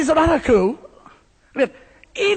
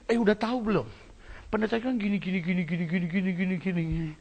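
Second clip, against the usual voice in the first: hushed gossip, much softer; 3 semitones lower, 10 dB quieter, faster than usual. Pretend. Churchgoers trading rumours about the pastor, hushed. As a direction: lean in and spread the rumour softly. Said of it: "Kita senang talk about preacher".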